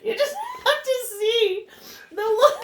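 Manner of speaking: laughing. Real, not acted. Reader laughing at picture.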